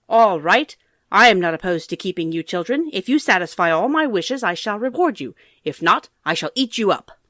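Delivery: loud, menacing witch; witch threat. Acted. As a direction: threaten the children like a hungry witch.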